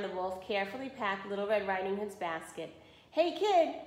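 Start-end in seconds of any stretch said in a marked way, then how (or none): 3.1-3.7 calling out. A narrator's reading. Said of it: "he called after".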